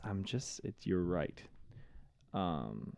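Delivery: slurping soup while talking; eating soup. Real, not acted. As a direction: talk between spoonfuls of soup. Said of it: "That was a needlessly loud slurp".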